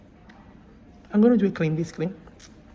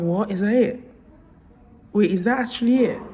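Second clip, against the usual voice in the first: retold disbelief; 3 semitones higher, 4 dB louder than usual.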